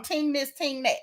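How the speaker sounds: a touch of imitation Jamaican; mock Jamaican accent. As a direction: lightly put on a Jamaican accent. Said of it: "playing with all these different accents".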